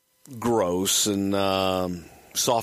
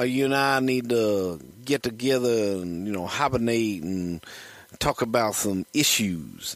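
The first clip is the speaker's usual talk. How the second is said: Dusty Rhodes impression. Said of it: "Dusty started leaving messages".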